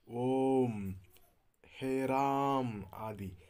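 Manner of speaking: ओम and हे राम drawn out long and loud; chanting-style long vowels, ओम held loud; prolonged pluta vowels. Shown as a demonstration. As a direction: stretch each vowel to three beats. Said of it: "इसलिए इनको कहा जाता है प्लुत स्वर".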